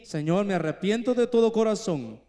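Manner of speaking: an earnest spoken prayer, softening toward the end; heartfelt prayer. Shown as a demonstration. Preacher to the congregation, modeling repentance: an earnest prayer. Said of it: "solo di".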